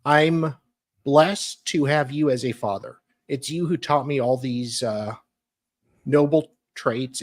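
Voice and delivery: a touched, earnest reading of the card; moved reading. Real, not acted. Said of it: "I can't even do dramatic readings of this".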